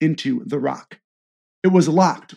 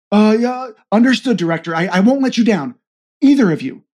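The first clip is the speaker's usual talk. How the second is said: nervous stammering; 5 semitones higher, 3 dB louder, faster than usual. Acted. Nervous agent promises.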